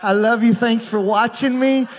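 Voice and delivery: playful shout-out to wife. Pretend. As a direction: lay on the affection for the absent wife, brightly projected. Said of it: "I'm gonna act like she is".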